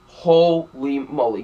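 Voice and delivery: slow, stretched holy moly; drawn-out disbelief. Real, not acted. Reviewer recalling a ridiculous car chase, slow stunned disbelief. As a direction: draw it out like you can't believe it.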